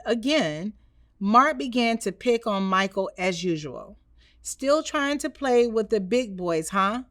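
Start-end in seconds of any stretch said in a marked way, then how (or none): 4.4-7.0 taunting. Acted. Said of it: "Mark taunted".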